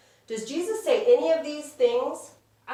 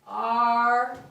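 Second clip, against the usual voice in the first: each word stretched, long pauses between; word-by-word dictation; much slower than usual. Shown as a demonstration. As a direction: say one word at a time while writing. We're gonna put it in black.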